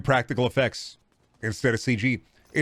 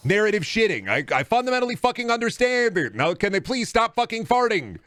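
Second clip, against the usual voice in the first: exasperated; 6 semitones higher than usual. Real, not acted. Exasperated rant at TV padding.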